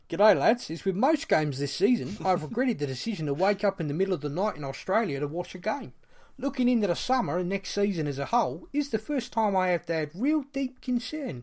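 put-on Australian accent. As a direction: read the fan's message as a so-so Aussie. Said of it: "I don't know where my accent's gone there".

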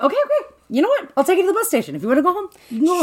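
high-pitched, hurried-to-soothe impression; mock placating. Acting out driver placating the girl.

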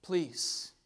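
desperate, punched prayer; crying out. Acted. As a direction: cry out for help in short bursts. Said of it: "Cried out".

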